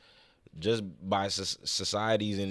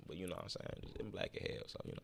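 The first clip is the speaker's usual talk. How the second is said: muttered aside; 3 semitones lower, 17 dB quieter, faster than usual. Real, not acted.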